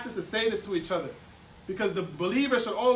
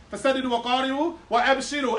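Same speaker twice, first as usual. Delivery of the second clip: 1 hadith recitation; much faster than usual. Real, not acted.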